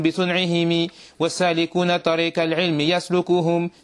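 measured chanting of Arabic verse, evenly pitched; verse recitation. Acted. Teacher reading a didactic poem to students, verse recitation. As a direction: recite the poem line by line in a steady cadence.

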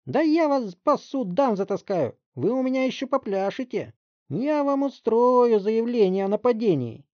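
high, loud slowed threats; threatening mother. Acted. Mother threatening the detective with lawsuits. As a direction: spit out every threat.

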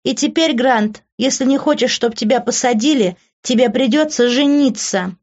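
high-pitched, smug taunting; mocking, self-satisfied woman; taunting schemer Ivy. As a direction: needle them sweetly in a high voice.

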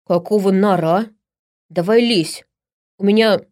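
loud, impatient barbarian; angry orc. Acted. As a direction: shove him along with your voice. Orc angrily urges the gnome. (громко и раздражённо, как орк)

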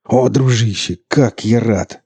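loud, high happy cry; joyful shout. A narrator's reading. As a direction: shout with relief. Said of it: "заорал он".

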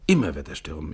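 loud, frantic proclamation; shouting. Acted. Raving Evans shouting at his comrade, loud. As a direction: shout it like a madman. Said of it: "rief er".

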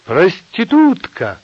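high, loud, drawn-out yell; shouted insult. A narrator's reading. Nina hurling an insult at Asya, shouting. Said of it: "кричала она".

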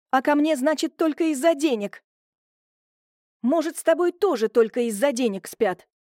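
high, accusing outburst; bursting out. Acted. Julia lashing out at her brother, high accusing outburst. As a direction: let the resentment burst out. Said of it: "её словно прорвало".

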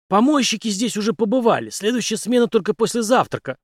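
a confident ex-captain explaining his trick; Henry's voice. Acted. Henry voiced, louder and higher.

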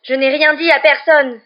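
slow, loud, high outcry; high-pitched cry. A narrator's reading. Girl who kept her professor's secret, crying shrilly. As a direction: cry it out, betrayed. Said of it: "s'écria Hermione d'une voix aiguë".

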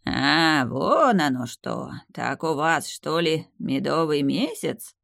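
put-on slow, grunting old tree realizing; lightly voiced creaky ancient tree. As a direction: creak it out knowingly. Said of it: "прокряхтело дерево".

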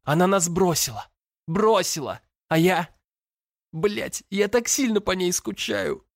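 высокий, надломленный голос сквозь рыдания; выплачи каждое слово; рыдающий подросток. A narrator's reading. Брат рыдает в душе. (брат в отчаянии рыдает, срываясь)

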